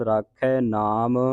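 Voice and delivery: slow ਰਾਖੈ ending in open khai; ਰਾਖੈ ਨਾਮ drawn out with a clear ai; open ai vowel. Shown as a demonstration. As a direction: stretch the ai of ਰਾਖੈ, then ਨਾਮ. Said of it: "ਰਾਖੈ ਦਲਾਵਾਂ ਦੇ ਨਾਲ".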